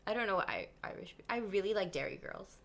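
a soft whispered aside; hushed whispered remark. Real, not acted. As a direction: whisper it, almost to yourself. Aside after the accent game.

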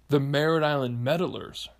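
"Meddlers" said with an e, as in meddling; Meddlers with "med". Shown as a demonstration. Man coins a gang name, "Meddlers" said with a short e. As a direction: make "Meddlers" start like the word med. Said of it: "They're meddling".

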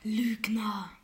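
mysterious slow whisper; fortune teller. Acted. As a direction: whisper it like a secret. Fortune teller names card.

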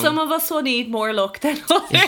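laughing through a playful jab. Real, not acted. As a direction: chuckle mid-sentence.

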